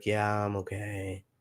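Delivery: very soft, hushed, very quiet, low calm voice. Recalling a brief talk before surgery, the speaker re-enacts a calm reply. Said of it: "I remember being very calm and being like".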